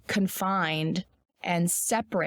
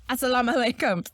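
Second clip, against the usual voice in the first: mock angry "Assalamu alaikum" greeting; 5 semitones higher, faster than usual. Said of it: "sounds like you're angry at people".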